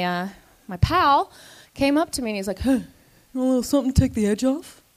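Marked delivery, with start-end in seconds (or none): 2.6-4.8 sly quick offer. Retold or imitated.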